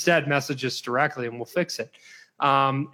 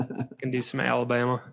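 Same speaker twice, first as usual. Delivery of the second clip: Alabama accent; faster than usual. Shown as a demonstration. Podcast host showing off his Southern accents to co-host, Alabama accent. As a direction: toss off a passable Alabama accent. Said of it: "That's a pretty close Alabama accent".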